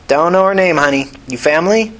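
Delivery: brisk nurse calling her honey; no-nonsense ER nurse; tired nurse. Acted. Nurse questions Tina.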